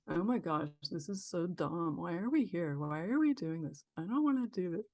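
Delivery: put-on mildly grumbling inner child; a touch of bored child resisting; not into it. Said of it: "was, like, not into it".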